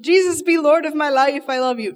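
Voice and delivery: mock pious prayer. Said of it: "This wasn't".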